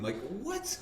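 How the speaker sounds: can't believe the legend is calling; stunned excitement. Retold or imitated. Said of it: "I'm talking now is exactly how I was on the phone".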